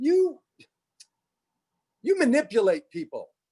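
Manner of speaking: put-on, very high, irritated, angry outburst. Speaker retells a woman's accusation to her, mock-irritated blurt. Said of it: "she said it just like that".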